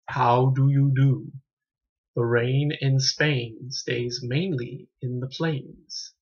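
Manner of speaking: slow, careful posh English elocution; over-precise Received Pronunciation drill, slowed right down; king's English. Retold or imitated. Reviewer recites the film's speech lesson in slow posh English. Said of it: "speak the king's English".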